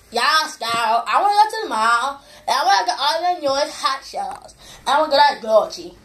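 lightly put-on girly voice; a hint of a mall-loving girl. Shown as a demonstration. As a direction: do a mild "yes, girl" shopper voice. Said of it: "That's my spot on girl voice".

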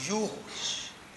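'યુ' breathed out slowly and softly; slow whispered point on 'યુ'; whispered emphasis. Shown as a demonstration. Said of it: "ત્યાં કેન્દ્રમાં". (ધીમે, ફફડાટથી 'યુ' પર ભાર)

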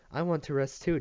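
insist, pitched well up; demanding. A narrator's reading. Little Maria wants a rest too, demanding. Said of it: "demanded Amia-, Maria".

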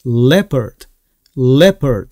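"leopard" in two syllables, "LEP-erd", silent o; crisp two-beat "leopard" with an unaspirated p; correct leopard. Shown as a demonstration. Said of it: "이렇게 됩니다".

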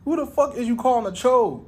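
high-pitched shocked comeback; shocked outrage. Retold or imitated. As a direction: squeal out the outrage. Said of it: "I'm like".

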